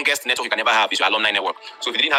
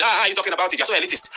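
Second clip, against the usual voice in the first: high, indignant mimicry of a critic; imitating a critic calling him elitist, high and indignant; mock outraged critic; 7 semitones higher, faster than usual. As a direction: sneer it like a scandalised online critic. Mocking critics' outraged reply.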